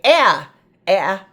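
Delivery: A said as its letter name, ay; long A name sound. Shown as a demonstration. Teacher showing the letter name A to kids. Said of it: "you would think an A would say".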